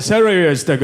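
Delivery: put-on celery stick in a thick Japanese accent; Japanese-accented "celery stick", syllables run together; Yumi Nagashima. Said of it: "Or as she calls it".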